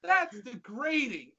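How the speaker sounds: high-pitched squeal of disbelief; very high, incredulous squawk; incredulous outburst. Real, not acted. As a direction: protest in squeaky, amused outrage. Disbelief at the show's punning title.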